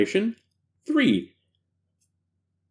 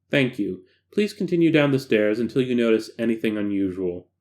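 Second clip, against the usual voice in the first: lower control doctor voice; 5 semitones lower than usual. Acted.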